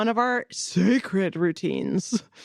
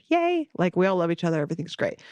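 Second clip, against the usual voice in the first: unconvincing; much faster than usual. Real, not acted. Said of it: "That didn't sound convincing".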